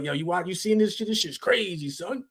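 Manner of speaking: lightly imitated Brooklyn accent; a hint of a Brooklyn friend. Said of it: "bring his Brooklyn accent back out".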